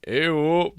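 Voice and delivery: disgusted ew. Real, not acted. Disgusted reaction to accent.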